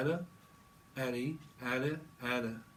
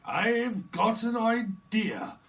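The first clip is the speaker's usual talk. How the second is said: high, slow eureka line; lightly mock eureka; 8 semitones higher, 5 dB louder, much slower than usual. Comic imagined voice, slow high eureka. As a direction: drawl out the bright idea slowly. Imitated speaker with a sudden idea.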